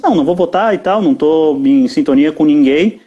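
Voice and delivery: ordinary talk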